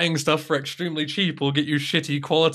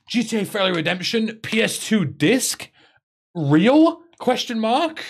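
high, hyped mock clickbait read; hammed-up YouTube thumbnail hype; clickbait title voice; 8 semitones higher, slower than usual. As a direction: sell it like a cheesy video title.

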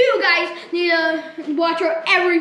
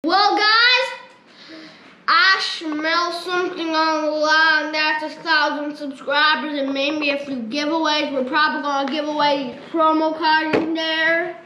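silly put-on voice. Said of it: "if you guys don't like the voice".

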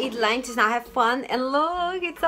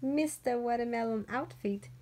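hushed; 9 dB quieter than usual. Real, not acted. Baby napping, she talks low.

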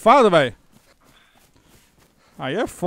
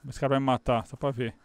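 muttered aside; 7 semitones lower, 10 dB quieter than usual. Real, not acted.

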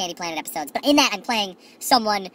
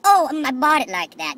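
innocent excuse; 5 semitones higher, 4 dB louder, slower than usual. Retold or imitated. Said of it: "I'm like".

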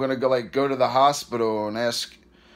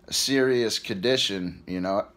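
hiccups; 3 semitones lower than usual. Real, not acted. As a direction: voice catching on hiccups. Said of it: "Excuse me again".

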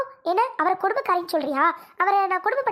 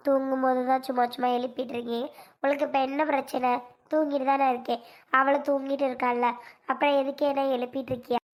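groggy complaint; 3 semitones lower, 3 dB quieter than usual. Acted. Woken from sleep, groggy complaint.

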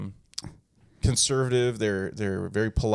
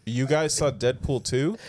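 mock disbelief; slower than usual. Shocked at parents' movie choice.

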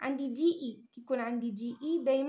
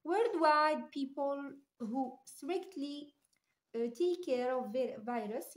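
slow reading aloud; much slower than usual. Shown as a demonstration. Teacher reading the example sentence to students, very slow. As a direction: read it out word by word, slowly. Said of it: "teacher reads example sentence slowly".

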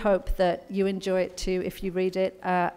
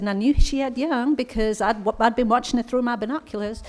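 put-on American accent; 4 semitones higher than usual. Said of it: "excuse my American accent".

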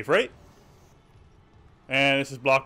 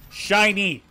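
squeaky excited Shiny; high squeal; 6 semitones higher, 3 dB louder than usual. Pretend. Gamer squeals at shiny item.

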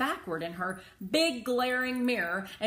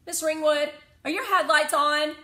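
put-on high, loud, preachy kid; know-it-all kid scolding the driver; lecturing child; 8 semitones higher, 11 dB louder than usual. A narrator's reading. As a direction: spell out the law, slowing on the last words.

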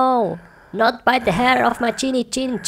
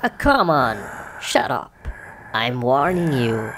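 deep threatening voice; 11 semitones lower than usual. Acted. Pig warns the wolf.

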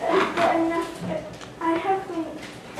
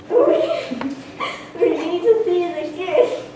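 bursting to march on the king; excited; 2 semitones higher, 4 dB louder, slower than usual. Acted. Peasant urging the crowd to London, excited. Eager rebel plotting.

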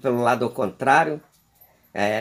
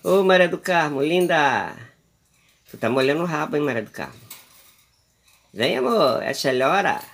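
put-on pet baby talk; 3 semitones higher than usual. Owner coaxing her pet bird Maria do Carmo to eat, cooing. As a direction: coo sweetly at the little bird.

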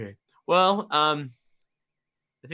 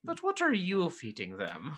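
slow, soft insistent question; lightly acted, slowly pressing for an answer; pressing in-character question; 3 semitones higher, 8 dB quieter, slower than usual. Player presses Chalmers in character.

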